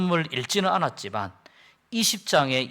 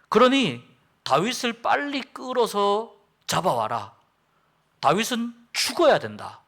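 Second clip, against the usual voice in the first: raised, louder, urgent king's voice; fervent preaching as Saul; 5 semitones higher, 4 dB louder than usual. Acted. Saul urging Jonathan to kill David, raised and urgent. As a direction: preach it like an enraged king.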